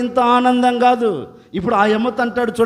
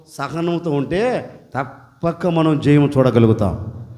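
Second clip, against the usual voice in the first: calm counsel; 4 semitones lower than usual. Acted. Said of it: "preacher counsels calm".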